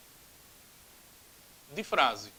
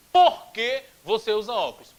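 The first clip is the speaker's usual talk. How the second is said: stretched question; 2 semitones higher, 5 dB louder than usual. Shown as a demonstration. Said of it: "um porquê que sai mais esticado".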